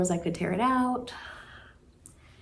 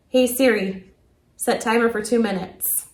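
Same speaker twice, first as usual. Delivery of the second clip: louder, clear voice command; loud command to Siri; 2 semitones higher, 6 dB louder than usual. Real, not acted. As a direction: call it out to the phone. Commanding phone assistant.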